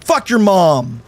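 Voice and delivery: high-pitched furious rant at the game; swearing tirade. Real, not acted. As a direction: rage at the game, cursing. Raging at the game.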